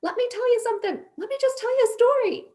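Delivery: high-pitched yell held on one note; retold screaming. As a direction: re-enact losing it, pitch shooting way up. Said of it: "I started screaming at this poor guy".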